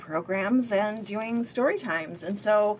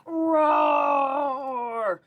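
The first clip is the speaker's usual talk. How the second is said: big shouted T-Rex roar, falling; dinosaur roar; 6 semitones higher, 4 dB louder than usual. Acted. Child roaring at Mommy, shouted dinosaur roar. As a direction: roar it out like an angry little T-Rex. Daryl roars in frustration.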